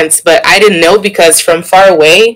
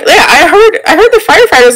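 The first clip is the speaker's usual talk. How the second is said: mom's unbothered voice; 12 semitones higher than usual. Retold or imitated. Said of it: "My mom was like".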